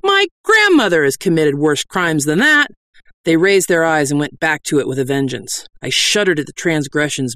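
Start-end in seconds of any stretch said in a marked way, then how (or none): 0.0-2.7 high, scornful harangue; indignant cry. Acted. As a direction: berate the sinners like a fiery preacher. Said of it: "I cried".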